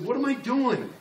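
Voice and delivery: fired-up demand of yourself; a mad listener's outcry; mad self-challenge. Retold or imitated. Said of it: "and said".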